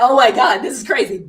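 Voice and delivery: loud, high, breathless Oh my God; freaking out. Retold or imitated. Retelling the feet buyer to the podcast hosts, excited loud. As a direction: blurt it out in disbelief. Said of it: "And I'm freaking out".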